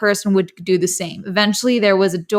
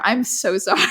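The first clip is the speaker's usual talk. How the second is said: laughing apology. Real, not acted. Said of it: "I feel bad I'm laughing".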